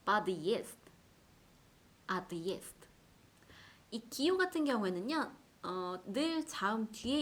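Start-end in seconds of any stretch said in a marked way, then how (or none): 0.0-2.8 подъезд and отъезд split before "yest"; hard sign separation. Shown as a demonstration. Teacher drills hard-sign words, подъезд and отъезд separated. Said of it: "으 발음을 넣기 위해서".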